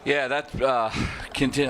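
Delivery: winded, catching breath between words. Real, not acted. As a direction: talk while still panting from the climb. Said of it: "I'm out of breath here".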